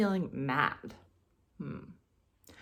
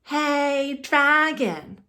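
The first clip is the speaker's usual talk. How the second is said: loud, higher call of dragon; shout; 8 semitones higher, 9 dB louder, much slower than usual. Acted. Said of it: "Elizabeth shouted".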